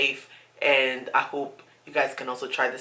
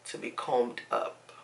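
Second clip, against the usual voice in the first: whispering; 5 semitones lower, 11 dB quieter, slower than usual. Real, not acted. Trailing whisper.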